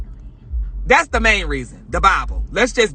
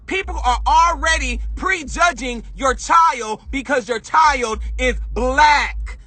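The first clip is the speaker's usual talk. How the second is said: angry emphasis; 2 semitones higher than usual. Real, not acted. Ranting to viewers, driving home your child is black, heated. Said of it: "I'm mad".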